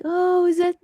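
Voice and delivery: high, hushed gasp of dawning realization; voicing dad realizing he'll be a grandfather; imitating her dad. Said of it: "he was like".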